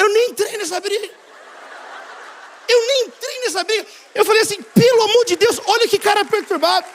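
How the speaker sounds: high-pitched comic protest; exasperated disbelief. Retold or imitated. Incredulous retelling of one-sided quarrel.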